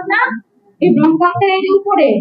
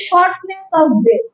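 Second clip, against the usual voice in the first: slow term; 3 semitones higher, much slower than usual. Shown as a demonstration. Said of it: "ডিজনিয়া হচ্ছে".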